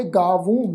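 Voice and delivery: ਗਾਵੂੰ with a nasalised long oo; nasal ending. Shown as a demonstration. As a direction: end ਗਾਵੂੰ through the nose. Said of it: "ਬਿੰਦੀ ਸਹਿਤ ਨਾਸਿਕ ਉਚਾਰਨ ਕਰਾਂਗੇ". (ਗਾਵੂੰ ਦਾ ਨਾਸਿਕ ਉਚਾਰਨ)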